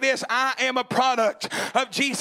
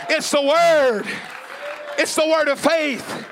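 preaching at full force. Real, not acted. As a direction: preach it hard to the congregation. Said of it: "so can I preach for a second?".

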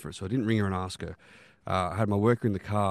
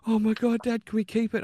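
put-on much higher, excited child pleading; excited kid; 13 semitones higher than usual. Father imitating his son begging to keep the kitten, high excited plea. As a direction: beg like a thrilled little boy, pitched way up. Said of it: "my son's going".

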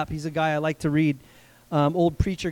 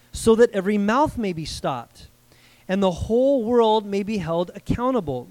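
measured, deliberate Bible reading; scripture reading. Acted. Preacher reads Paul's words to the congregation, deliberate scripture reading. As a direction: read the verse out with weighted pauses.

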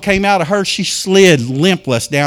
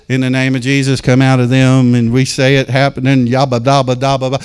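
mocking rote reading; 5 semitones lower than usual. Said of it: "You cannot read this off of paper".

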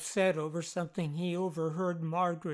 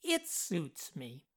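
slow, softer reflective tone; confiding; 2 semitones lower, 6 dB quieter, slower than usual. A narrator's reading. Jeff confides in a moment of reflection, slow and soft. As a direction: say it softly, as a confidence. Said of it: "he confided in a moment of reflection".

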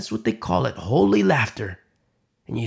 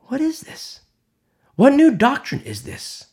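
amazed crowd; 12 semitones higher, 4 dB louder than usual. Acted.

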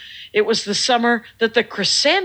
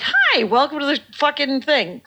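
mildly hammed-up eager greeting; golden-retriever friendliness; 3 semitones higher than usual. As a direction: imitate an over-friendly customer service welcome. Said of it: "I am the golden retriever of customer service".

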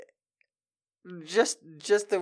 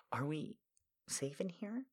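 1 whispered fear; 18 dB quieter than usual. Acted. Heroine timidly asking the pilot about safety, in a whisper. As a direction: sigh then a frightened whisper.

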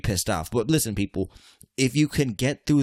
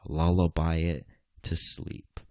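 gentle slow lullaby-like advice; soothing; 4 semitones lower, slower than usual. Acted. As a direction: hush it down like a baby. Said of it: "treat that emotion like a little baby".

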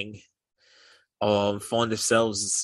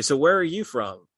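put-on English accent, a touch higher; mock British accent; 5 semitones higher, 3 dB louder than usual. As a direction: ask it like the British guy would, lightly accented. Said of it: "I'm doing it in his accent".

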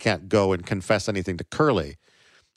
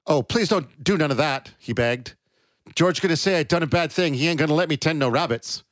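panicky, pleading, higher; begging; 6 semitones higher than usual. Acted. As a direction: beg in rising panic.

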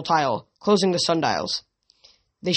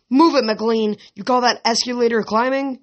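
higher, louder gym coach bark; imagined coach yelling; 5 semitones higher, 3 dB louder than usual. Retold or imitated. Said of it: "imagined Hedge yelling in her mind".

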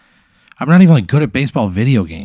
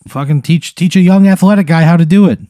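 exasperated shout; 7 semitones higher, 4 dB louder than usual. Real, not acted. Exasperated player outburst.

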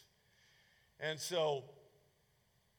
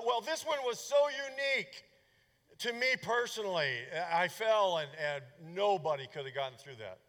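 much higher, louder self-pitying excuse voice; mocking excuse-maker; 3 semitones higher, 5 dB louder than usual. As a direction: parody someone pleading their case is special. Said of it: "you've heard this rationalization through the years".

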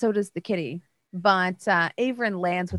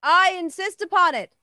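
cat voice; 7 semitones higher, 3 dB louder than usual. Acted. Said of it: "you see the cat behind you go like".

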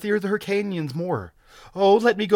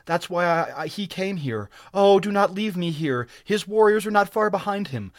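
high-pitched, urgent woman's voice; terrified moaning plea; 7 semitones higher, 6 dB louder than usual. A narrator's reading. Captive explaining herself to her rescuer, terrified. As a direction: plead high, ending in a loud moaned cry. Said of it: "she moaned in her terror".

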